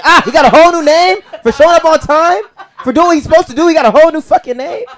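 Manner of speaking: high, loud laughing outrage; incredulous rant. Real, not acted. Comic ranting to the audience about a new name. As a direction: rant it like it's ridiculous.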